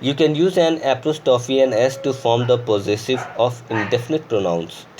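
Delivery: very slow dictation of the rule; slow rule reading. Shown as a demonstration. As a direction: read the rule aloud word by word. Reads grammar rule slowly. (धीमी गति से नियम पढ़ना)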